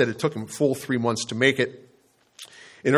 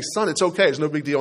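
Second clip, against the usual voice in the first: imitated breezy dad; 3 semitones higher than usual. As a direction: brush it off like a dad playing it down. Replaying dad's dismissive comfort.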